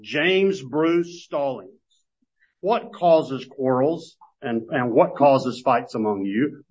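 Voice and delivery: slow, pointed reading of the question aimed at one person; personal address. Shown as a demonstration. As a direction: read it slowly, as if calling him by his full name. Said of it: "it's written more like this".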